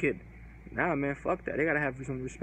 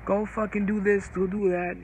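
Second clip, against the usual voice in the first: mocking bratty teen; 4 semitones higher, 6 dB louder than usual. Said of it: "she was cursing out her grandpa".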